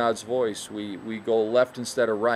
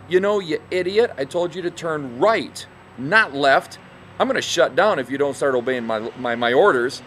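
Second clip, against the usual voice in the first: a bit louder, exasperated scolding; hammed-up GPS lady losing her patience; mock frustrated scolding; 3 semitones higher, 4 dB louder than usual. GPS lady scolding the lost driver, mock frustrated. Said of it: "she's gonna get all frustrated and say".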